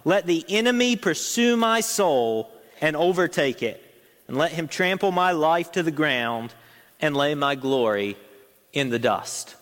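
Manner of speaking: preacher reading a psalm aloud to the congregation, solemn; scripture reading. Acted. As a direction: read the verses like a solemn prayer. Reads verse five.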